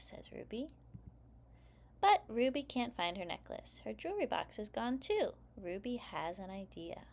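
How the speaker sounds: put-on lively read-aloud for young kids; story narration. A narrator's reading. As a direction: read it like story time for preschoolers. Reads picture book aloud.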